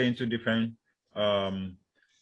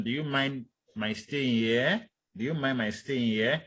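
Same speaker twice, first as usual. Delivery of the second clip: HERE lifted at the end, unhurried; hesitant rising question. Shown as a demonstration. Lecturer showing hesitation to students, rising intonation. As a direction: ask carefully, letting "here" curl upward. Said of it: "When you have hesitation".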